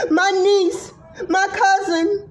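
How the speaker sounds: crying through the words; words cracking into tears; voice breaking. Real, not acted. Voice cracks listing family.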